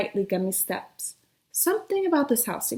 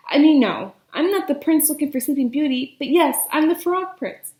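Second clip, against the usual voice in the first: flustered babbling; 4 semitones higher, 3 dB louder than usual. Acted. Flustered prince explains.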